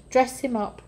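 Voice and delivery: happy father shouting orders to the servants; joyful shout. Acted. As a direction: ring it out with delight. Father calls joyfully for party.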